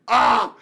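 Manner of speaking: loud, high mock scream of fright; acted scream. Driver retells seeing the lights come on, loud acted scream. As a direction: yelp as the dread hits.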